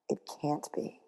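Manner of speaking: breathless disbelieving whisper. Acted. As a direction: barely breathe the words. Disbelief at own room.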